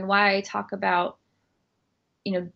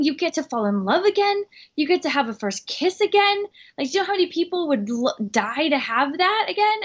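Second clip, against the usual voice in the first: higher, gushing and upbeat teacher voice; imitating the yoga teacher; 6 semitones higher than usual. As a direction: play the bubbly instructor cheering someone up. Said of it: "She's like".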